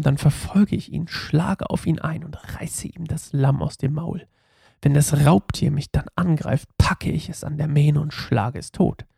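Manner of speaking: measured, emphatic read-aloud; Bible story narration. A narrator's reading. Pastor reads David and Goliath to listeners, storytelling delivery. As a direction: read it as a dramatic story, weighting key words.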